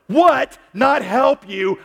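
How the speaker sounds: sharp high loud "What?"; as if the doubt is absurd; incredulous what. Acted. Voicing God's indignant question.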